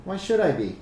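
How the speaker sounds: put-on high child's voice; little girl character. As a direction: question back as an unbothered kid. Game master answers as little girl.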